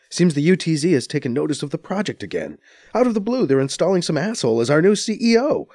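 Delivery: fed up with the news; exasperated. A narrator's reading. Anita complaining to B C, exasperated. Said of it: "she says with exasperation".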